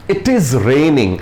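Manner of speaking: very slow, each word laid out; slow example read. Shown as a demonstration. Teacher reading an example sentence to students, very slow. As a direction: dictate the sentence slowly for the class. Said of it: "देखिएगा, पहला picture क्या है".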